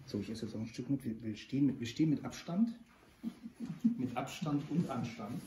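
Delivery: talking with a mouthful; words round a bite of stollen; mouth full. Real, not acted. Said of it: "man darf mit vollem Mund sprechen".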